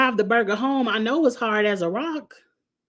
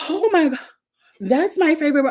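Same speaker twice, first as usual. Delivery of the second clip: excited squeal; 7 semitones higher than usual. Retold or imitated. Voicing Liz excited.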